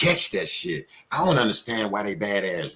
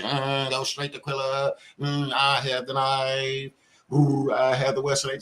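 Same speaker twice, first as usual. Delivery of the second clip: slow, drawn-out mock of a scheming inner voice; 2 semitones higher, slower than usual. Ranting host mocks the guy's scheming inner voice, slow and sly. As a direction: ham up the sly thoughts in his head. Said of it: "something in your mind say".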